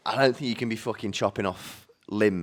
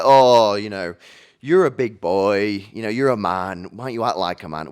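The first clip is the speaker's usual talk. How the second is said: mock patronising nurse; 6 dB louder than usual. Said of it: "trying to be like".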